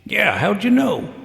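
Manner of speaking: genuinely taken aback that he guessed; surprised. Acted.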